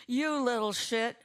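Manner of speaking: put-on high, loud snarl at a biting child; angry outburst. A narrator's reading. Brandon snapping at the toddler who bit him, angry outburst. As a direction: spit it at the little biter.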